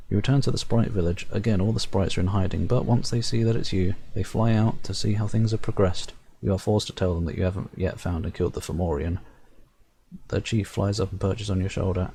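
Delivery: measured storyteller reading the game text; story narration. A narrator's reading. Reading the game's narration aloud to viewers, storyteller voice. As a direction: narrate it like a fairy tale.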